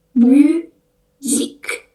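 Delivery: "Musique" very slow, myzik; French pronunciation. Shown as a demonstration. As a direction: stretch "Musique" as a model word. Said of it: "ada musique".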